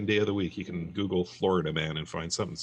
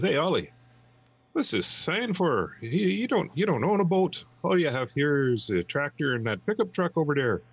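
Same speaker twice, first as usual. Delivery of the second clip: Sven's voice; 8 semitones higher than usual. Acted. Joke: Sven voiced.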